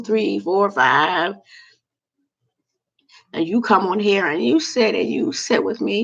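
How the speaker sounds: ordinary talk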